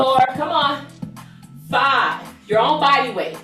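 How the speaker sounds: upbeat fitness instructor counting reps; aerobics instructor. Real, not acted. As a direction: pump up the class while counting.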